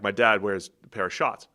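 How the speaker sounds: Boston "shots" for shorts, R dropped; Boston accent. Shown as a demonstration. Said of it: "it's an ah when it's in the middle".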